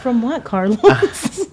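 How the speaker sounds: slow "From what, Carlos?" through laughter; laughing repeat. Real, not acted. Teasing repeat after his apology.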